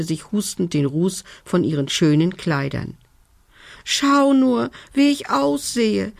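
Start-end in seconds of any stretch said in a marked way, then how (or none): 3.8-6.1 fairy voice, high and wailing; whining fairy. A narrator's reading. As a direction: whine it as a small upset fairy. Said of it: "jammerte sie".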